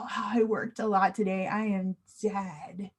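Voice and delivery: a touch of end-of-day weariness; acted tiredness. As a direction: let it sag, as if exhausted. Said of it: "It means I'm tired".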